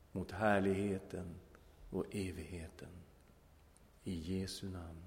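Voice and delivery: prayer. Acted. Preacher leading the congregation in prayer, reverent.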